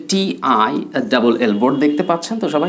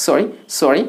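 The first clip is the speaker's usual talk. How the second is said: questioning; much slower than usual. Shown as a demonstration. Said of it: "প্রশ্নবোধক".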